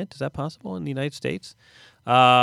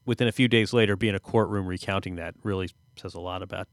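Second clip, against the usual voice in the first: ordinary talk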